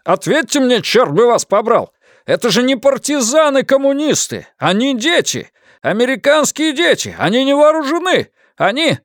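high, desperate pleading; panicked pleading. Acted. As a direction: beg in panic. Panicked officer pleading on radio.

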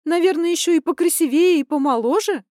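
high, loud, furious daughter venting; indignant rant. Acted. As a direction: pour it all out in rising outrage. Daughter ranting about cheating father.

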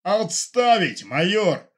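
high, loud, slow furious command; roaring order. Acted. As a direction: roar the order at the major. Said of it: "взревел Фомченко". (Фомченко ревёт на майора)

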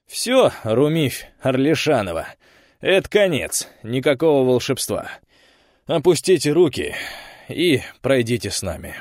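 loud high arrest order; stern command. Acted. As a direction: order her firmly. Officer arrests witch.

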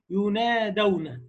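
"ينادون" recited slowly with a light nasal ghunna on the unstressed noon; "ينادون" بغنة خفيفة ممدودة; ghunna demo on "ينادون". Shown as a demonstration. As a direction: draw out "ينادون", letting the noon hum lightly in the nose. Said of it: "النون والميم خفيفتين محركتين".

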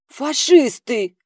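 a croaking, drawn-out cry of alarm; croaked. A narrator's reading. Kopeikin croaking in alarm at the strangers. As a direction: croak the word out slow and high. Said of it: "первым квакнул Копейкин".

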